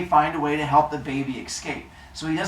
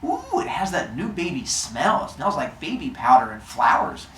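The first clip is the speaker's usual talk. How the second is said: mock sniffing baby; 3 semitones higher than usual. Cronus pretending to sniff the newborn, rising into laughter. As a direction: savor the baby smell, then crack up. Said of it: "he's like".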